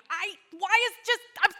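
high, loud frustrated whine; whiny self. Retold or imitated. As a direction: whine like you're fed up. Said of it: "I went through very long seasons going".

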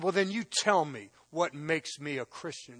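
loud, slow, high challenge; retelling how he dared the counselor, loud and slow; angry challenge. Retold or imitated. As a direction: hammer each word at him, daring him to answer. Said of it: "just like that".

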